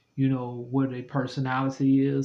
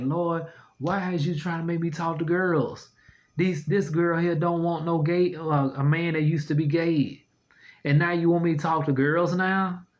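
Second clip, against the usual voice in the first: mock prayer to the Lord; 4 semitones higher than usual. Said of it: "I was praying the whole time".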